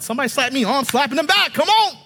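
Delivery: mock indignation. Preacher acting out easy urge to retaliate, mock-indignant. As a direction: play someone itching to hit back. Acts out urge to hit back.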